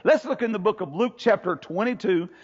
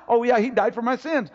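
offhand acknowledgement; 3 semitones higher than usual. Acted. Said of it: "It's not just".

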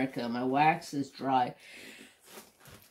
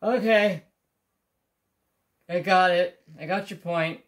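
sheepish okay; 4 semitones higher, 6 dB louder than usual. Retold or imitated. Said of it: "and I'm like".

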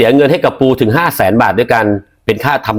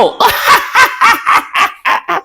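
wild laugh. Acted. Som laughs wildly in the game.

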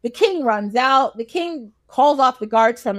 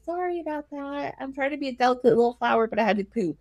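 softly apologetic, acting delicate; bashful excuse; 6 dB quieter, faster than usual. Wife excusing herself to her husband, softly bashful. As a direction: make a coy little apology, softly.

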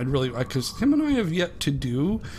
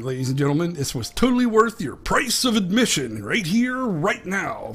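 hammed-up announcer; 4 semitones higher, 3 dB louder than usual. Mock announcement to viewers.

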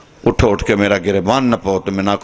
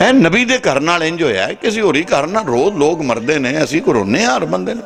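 high, swooping preacher's appeal; impassioned majlis plea; 8 semitones higher than usual. Acted. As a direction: plead with the congregation at high pitch. Preacher pleads at high pitch. (ਉੱਚੀ ਸੁਰ ਵਿੱਚ ਜੋਸ਼ ਭਰੀ ਫ਼ਰਿਆਦ)

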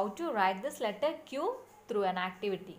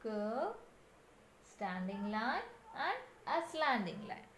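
much softer recital of "Curve, standing line"; soft repeat; 8 dB quieter than usual. Shown as a demonstration. Teacher repeats the writing steps for children, soft recital. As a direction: murmur the steps quietly to yourself.

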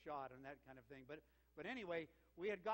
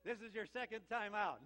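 louder, higher disbelieving objection; mock protest; 5 semitones higher, 8 dB louder than usual. Pastor disputing the golfer's hole-in-one claim, in mock disbelief. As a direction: object loudly, as if it can't be true.

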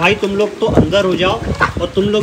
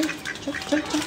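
high playful shooing; 10 semitones higher, 11 dB quieter, much slower than usual. Real, not acted. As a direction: shoo the bird off in a high squeak. Shooing the bird. (ऊँची आवाज़ में भगाना)

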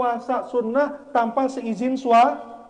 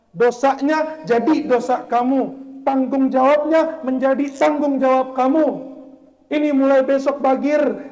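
a hint of a solemn elder, louder; father-in-law's solemn charge; 3 semitones higher, 5 dB louder than usual. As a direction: give the groom his duty solemnly. Father-in-law voiced in story. (mertua menasihati menantu dengan khidmat dan lantang)

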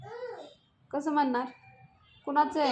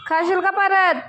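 higher and louder sharp telling-off; louder scolding repeat; 6 semitones higher, 7 dB louder than usual. Real, not acted. Mother repeats her warning to toddler, louder and sharper. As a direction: press the warning home, harder.

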